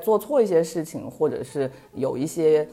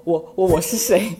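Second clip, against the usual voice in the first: stammering; 2 semitones higher, 6 dB louder than usual. Retold or imitated. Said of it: "结结巴巴地说".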